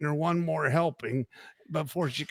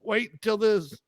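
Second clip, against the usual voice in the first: higher-pitched Southern drawl; James Gregory; 4 semitones higher than usual. Retold or imitated. Comedian after Thanksgiving dinner, in a Southern drawl. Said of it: "he got that southern drawl".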